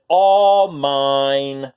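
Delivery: loud, drawn-out gloating; possessive growl. A narrator's reading. Minosaur hugging the toys, loud possessive gloat.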